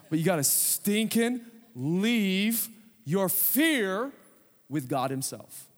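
slow, stretched, leaning hard on stinking; odd put-on drawl. Real, not acted. Preacher slipping into a silly voice on stinking. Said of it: "I don't know why I'm talking like this".

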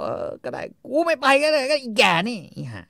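high, loud grudging curse; husband caving to his wife; mock grumbling husband. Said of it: "ผัวก็บอก".

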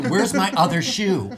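imitating your own frantic demand; mock panicked scream. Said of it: "I just kept screaming at her".

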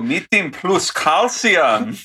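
hammed-up, slow German accent; mock German accent. Host reading candy labels to listeners, mock German accent. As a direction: read it slowly in a put-on German accent. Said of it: "do offensive German accents right now".

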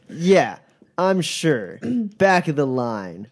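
bouncer voice. Acted. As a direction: sneer it like a bored doorman. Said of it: "he looks you up and down and goes".

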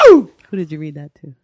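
loud, laughing demand; shouted teasing question. Real, not acted. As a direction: call him out loudly.

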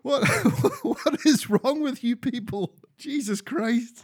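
rising exasperated outburst; escalating comedy rant. Retold or imitated. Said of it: "I was like".

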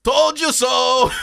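long drawn-out mock shout; passing taunt. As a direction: call it out slowly from a passing jet. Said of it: "jet going by saying".

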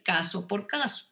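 ordinary delivery

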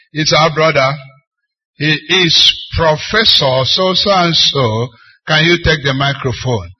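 lightly voiced announcer, firm and projected; session announcer. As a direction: introduce the speaker to the room. Acts out announcer introducing the speaker.

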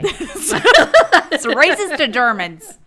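loud, slow words squeezed through laughter; helpless laughter. Real, not acted. Host judges her own bad accent, laughing hard. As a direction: gasp it out while cracking up.

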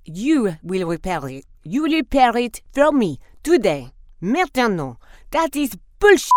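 loud commanding outrage, peaking on bullshit; furious diva. Acted. Diva demands repair.

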